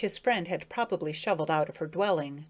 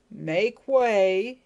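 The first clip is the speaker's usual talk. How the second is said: loud call of make way; 2 semitones higher, 7 dB louder than usual. A narrator's reading. Bobby calling out to the unseen voice, loudly. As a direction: call out to clear the path. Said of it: "he called".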